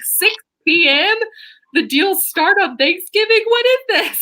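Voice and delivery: incredulous complaint, pitch rising to the end; complaining. Acted. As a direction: grumble in rising outrage. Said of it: "such an old person when I'm complaining".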